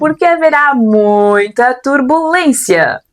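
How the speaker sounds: flight attendant announcement. Acted. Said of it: "veio motivada ela hoje como comissária de bordo".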